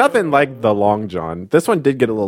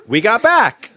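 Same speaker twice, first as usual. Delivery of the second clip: laughing; 9 semitones higher, slower than usual. Real, not acted.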